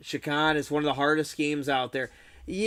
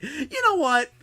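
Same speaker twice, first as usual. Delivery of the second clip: higher, louder mock rant that gives up on the game; imitating a gamer who snaps and quits; fed-up outburst; 9 semitones higher, 5 dB louder, slower than usual. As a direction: quit the game in a huff. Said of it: "you're like".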